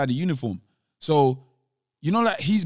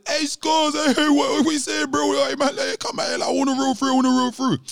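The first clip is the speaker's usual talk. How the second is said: excited shouting; 11 semitones higher than usual. Retold or imitated. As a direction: shout it like a hyped friend. Friends shouting to join him.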